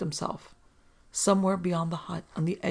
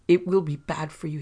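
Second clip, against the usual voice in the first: warning; 6 dB louder than usual. Acted. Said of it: "he warned".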